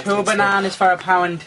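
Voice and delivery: put-on a Dublin street seller's accent, lightly done. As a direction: call it like a Dublin fruit seller. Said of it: "do your dub accent".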